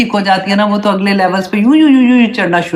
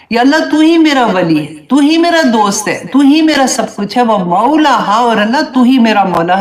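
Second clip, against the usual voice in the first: fervent plea; 3 semitones higher than usual. Acted.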